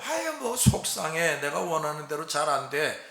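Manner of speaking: a mildly acted grumble of frustration; a believer lightly voiced, whining that nothing goes right; upset sigh. Believer complaining to God.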